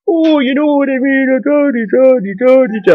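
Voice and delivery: mock stage-Irish. Vlogger mocking a stage-Irish speaker's put-on accent. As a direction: ham up a stage-Irish blarney voice. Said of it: "he says it in this Paddy McIrishman".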